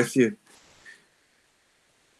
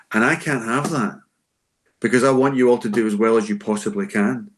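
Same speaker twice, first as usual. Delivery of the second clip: dead serious. Shown as a demonstration. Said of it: "say it like it's dead serious".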